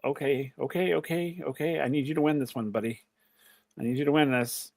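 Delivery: high, hushed, anxious begging to a favourite wrestler; a jittery fan's hushed prayer; nervous pleading. Retold or imitated. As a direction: plead softly, scared your guy will lose. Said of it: "I'm as literally like".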